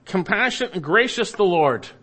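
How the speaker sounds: "Compassionate" lifted high and leading; emphatic word order. Shown as a demonstration. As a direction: punch "Compassionate and gracious" ahead of "the Lord". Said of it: "it's emphatic".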